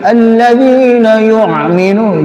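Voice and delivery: hamzah in yu'minu forced like ain, slow; exaggerated throaty hamzah demo; retching hamzah. Shown as a demonstration. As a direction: gag on the hamzah as if vomiting. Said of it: "kayak orang mau muntah".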